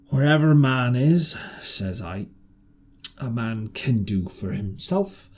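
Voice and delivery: put-on slow, low-keyed old sailor; a hint of a rough marooned seaman; lightly voiced castaway. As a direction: drawl out the hard years. Ben Gunn's castaway voice.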